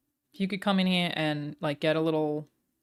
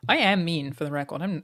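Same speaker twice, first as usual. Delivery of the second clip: usual speaking voice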